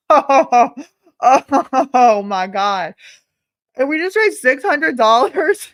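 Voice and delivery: can't believe the money pouring in; excited disbelief. Real, not acted. Donations surge live on stream.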